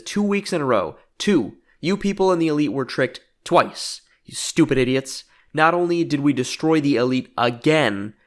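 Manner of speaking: emphatic, punchy mock wrestling promo; gloating promo. Jericho taunts the Elite from the ring, gloating promo. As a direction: lay into the crowd like a heel on the mic.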